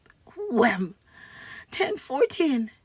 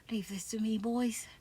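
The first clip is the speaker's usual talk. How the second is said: hushed plotting whisper; 5 semitones lower, 10 dB quieter than usual. Acted. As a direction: whisper it confidentially. Conspiratorial aside to boys.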